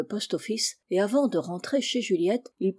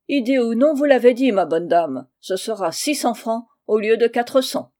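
loud, raised, cutting off the objection; firm insistence; 2 semitones higher, 5 dB louder than usual. Acted. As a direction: lay down the price firmly. Holnick insists on a higher price. (ton ferme et sans réplique)

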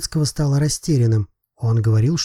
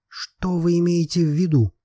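higher, insistent repeated question; stubborn; 5 semitones higher than usual. A narrator's reading. Lobetsky repeats his question to Miroslava, stubborn. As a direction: dig in stubbornly, pitch raised. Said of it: "повторил Лобецкий упрямо".

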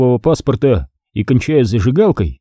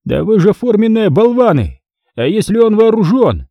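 angry yell; 9 semitones higher than usual. A narrator's reading. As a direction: berate the idiots. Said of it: "заорал Стригун".

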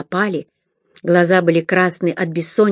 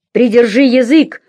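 growled; 5 semitones higher, 5 dB louder than usual. A narrator's reading. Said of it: "зарычал на неё Хорт".

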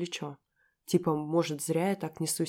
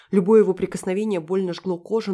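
ordinary delivery

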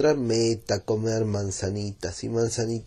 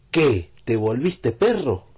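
louder, mocking little question; teasing question; 5 dB louder, slower than usual. The speaker teasing José Luis, a mock-puzzled question. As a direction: poke fun at him. He teases his friend.

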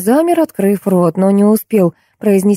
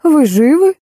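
called out; 9 semitones higher, slower than usual. A narrator's reading. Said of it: "и крикнула".

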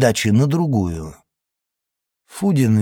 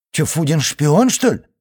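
surprised; 3 semitones higher than usual. Acted. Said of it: "удивился Костик".

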